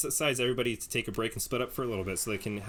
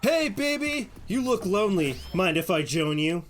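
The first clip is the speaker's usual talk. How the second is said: much higher and louder, a cocky K-pop flirt; flirty Trickster; 8 semitones higher, 5 dB louder than usual. Acted. Trickster sidles up to the player by the fire, high, loud cocky flirting. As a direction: hit on the lonely player like a smug pop idol.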